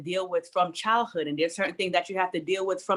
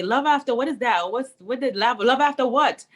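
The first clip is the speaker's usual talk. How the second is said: higher, puzzled mock question; puzzled questioner; 5 semitones higher than usual. Author voicing readers puzzled by her book title. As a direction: ask it like a confused reader. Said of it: "a lot of people might say".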